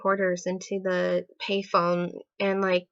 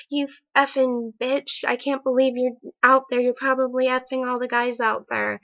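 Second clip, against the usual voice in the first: higher-pitched retold accusing rant; imitated super anger; 4 semitones higher, 4 dB louder than usual. Boyfriend's angry voicemail to girlfriend, imitated accusation. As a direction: lightly act out a jealous, angry message. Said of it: "him super angry".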